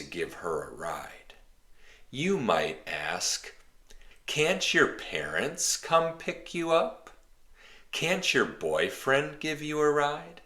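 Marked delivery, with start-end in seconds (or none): 4.2-10.4 offhand suggestion. Acted. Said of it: "They're suggestions".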